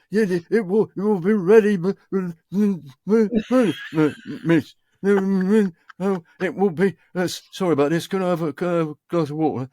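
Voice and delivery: high, quavering, stammering panic at the mic; freaked-out novice. Acted. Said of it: "he is freaked out".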